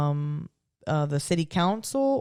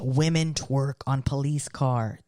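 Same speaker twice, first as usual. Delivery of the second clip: slow, dramatic headline read; news anchor voice; slower than usual. Acted. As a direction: announce it like breaking news.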